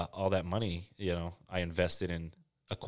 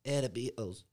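much higher, louder British rocker "oi, oi"; much higher, louder mock British rock-star voice; rock singer impression; 9 semitones higher, 6 dB louder than usual. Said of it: "turn into a rock singer".

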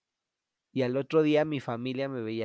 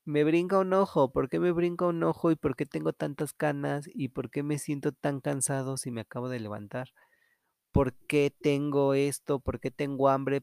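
anxious self-questioning; 2 semitones higher, 3 dB louder than usual. Retold or imitated. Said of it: "me veo en el espejo y digo".

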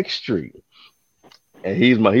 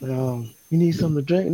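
higher, soft, polite offer of a drink; customer offering a drink; 7 semitones higher, 4 dB quieter than usual. Retold or imitated. Lady at the pickup offering the mail carrier a drink, polite. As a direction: ask sweetly if he's thirsty. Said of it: "the lady came out".

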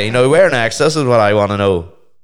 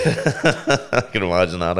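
laughing; slower than usual. Real, not acted. Laughing at the Baywatch image.

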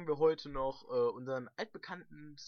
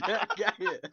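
stifled giggles; 7 semitones higher, 11 dB louder than usual. Real, not acted. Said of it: "wir dürfen echt nicht lachen".

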